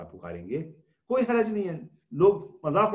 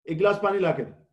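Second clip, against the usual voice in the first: a mild mock-rude demand for water; a hint of a rude spouse ordering water; rude, harsh tone; 2 semitones higher, 4 dB louder than usual. Shown as a demonstration. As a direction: bark the order lightly, without courtesy. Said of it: "بڑی بدتمیزی سے بولتے ہیں".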